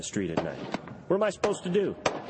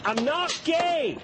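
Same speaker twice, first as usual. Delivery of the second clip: very high, slow shrill denial; high, drawn-out panicked protest; much slower than usual. Acted. Sketch actor denies frantically.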